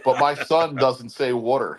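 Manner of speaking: water said as "wooder"; Philly pronunciation. Real, not acted. Explaining son's objection, water said the Philly "wooder" way. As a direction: round the first vowel of water, "waw-der". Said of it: "People say I have a horrible, thick Philly accent".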